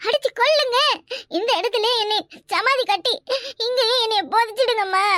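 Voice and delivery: melodramatic sobbing repentance; feigned tearful begging. Pretend. Woman begging sister-in-law to punish her, hammed-up weeping. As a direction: plead with put-on sobs, piling up the phrases.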